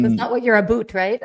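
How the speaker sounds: teasing Canadian "aboot" for "about"; mock Canadian accent. Guest ribbing host over accents, mock Canadian accent. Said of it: "We don't sound like that".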